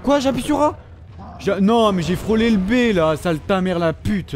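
furious disbelief at the game; raging gamer. Real, not acted. Gamer raging at missed button. (joueur furieux contre le jeu)

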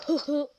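hooting "ooh" laugh; imitated funny laugh. Recalling a friend watching a video, imitated laugh. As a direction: mimic a friend's odd hooting giggle. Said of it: "It's funny how he kinda laughs".

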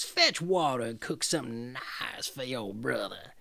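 put-on bully the girl like a cruel witch; scolding witch. Witch ordering Gretel to fatten her brother, harsh.

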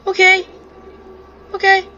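laughing panic. Real, not acted. Friends panic in horror game.

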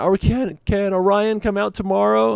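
put-on high, eager kid voice; kid asking. Neighborhood kids asking the dad for Orion, high eager kid. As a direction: beg like a little kid. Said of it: "they all come to me and is like".

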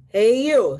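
loud, drawn-out challenging call; grouchy ladybug. Acted. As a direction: call out like a grouchy bug picking a fight. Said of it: "grouchy ladybug".

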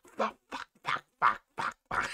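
hushed, repeated cursing under the breath; quiet mock swearing. Scolded ranter promising to be quiet, hushed swearing. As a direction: keep the swearing down, very soft.

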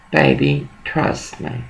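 trust me breathed with no voice; whispered plea. Real, not acted. Coaxing her husband on the phone, whispered. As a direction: whisper it close, pleading softly.

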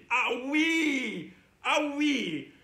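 drawn-out comic cries of pain; hammed-up aching back; mock pain. Teacher clowning for kids with a locked back, mock wailing. Pretends his back is hurting.

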